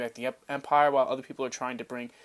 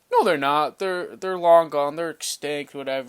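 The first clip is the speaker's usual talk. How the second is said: dismissive denial; 7 dB louder than usual. Retold or imitated. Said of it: "and then they're like".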